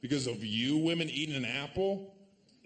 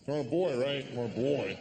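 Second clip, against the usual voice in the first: bro talk. Retold or imitated. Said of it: "talking to another guy".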